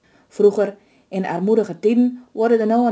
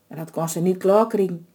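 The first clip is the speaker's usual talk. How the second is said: ordinary delivery, nothing marked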